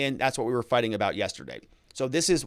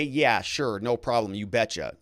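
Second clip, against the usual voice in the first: casual; 3 semitones lower than usual. Shown as a demonstration. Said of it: "don't say".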